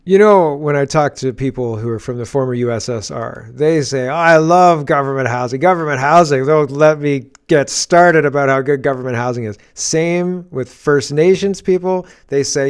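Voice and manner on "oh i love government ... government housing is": mock-gushing, a bit louder; sarcastic quote. Host mocking praise of government housing, sarcastic. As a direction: gush over it with heavy sarcasm. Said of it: "Government, I'm being sarcastic".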